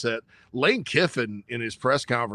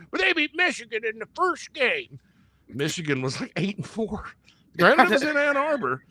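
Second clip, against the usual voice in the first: sarcastic high voice; 9 semitones higher than usual. Acted. Sarcastic aside, high far voice.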